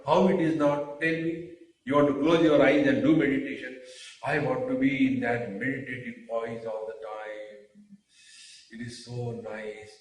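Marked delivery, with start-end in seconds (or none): 4.2-9.9 lightly voiced dreamy meditator, sinking softer; gently mock a meditator lost in contentment; imitated blissful meditator. Teacher imitating a seeker who loves meditation, soft mock bliss.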